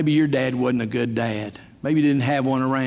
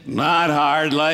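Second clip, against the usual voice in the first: 1 Jesus as the Duke; much slower than usual. Retold or imitated. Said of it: "He might have said".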